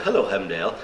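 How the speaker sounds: receptionist in a hammed-up English accent; bad English accent. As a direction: put on an amateurish English accent. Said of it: "do a bad English accent".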